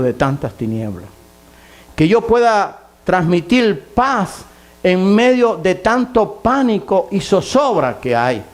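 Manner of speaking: high, slow pleading with drawn-out key words; fervent preached plea. Acted. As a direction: plead earnestly to God for the congregation. Voices a plea to God.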